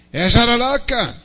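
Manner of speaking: loud, high, drawn-out insistence; quarrel shout. Acted. One brother arguing with the other about the snake, indignant shout. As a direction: shout it stubbornly, stretching the words. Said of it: "começou o maior quebra-pau entre os dois".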